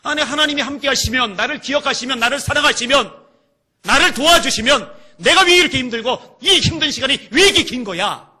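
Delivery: loud, high, mounting outcry; anguished protest. Acted. Struggling believer questioning why God allows this, anguished protest. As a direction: cry out the doubt, pushing harder on each clause. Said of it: "이런 생각이 든단 말이죠".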